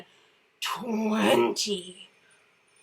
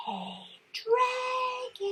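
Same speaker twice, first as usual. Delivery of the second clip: much softer hushed call; soft whisper; 5 dB quieter, much slower than usual. A narrator's reading. Elizabeth softly waking the dragon, hushed. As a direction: breathe it so he barely stirs. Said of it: "Elizabeth whispered very softly".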